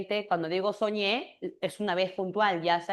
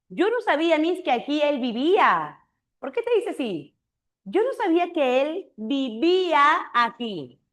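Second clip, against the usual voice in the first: student's voice; 5 semitones higher than usual. Retold or imitated. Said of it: "una alumna".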